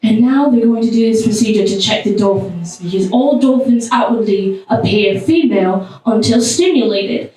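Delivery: lightly voiced British nature presenter; British documentary narrator. Nature special host explains a dolphin procedure, lightly British narration. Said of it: "the British man talking and talking".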